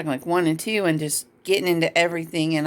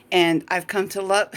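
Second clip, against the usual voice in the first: choked up. Real, not acted.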